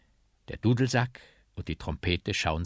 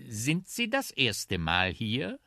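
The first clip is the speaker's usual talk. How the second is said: lightly voiced slow, higher question; inquisitive trumpet; 5 semitones higher, slower than usual. Trumpet asks its stout travel companion, slow curious question. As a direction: ask it with drawn-out curiosity.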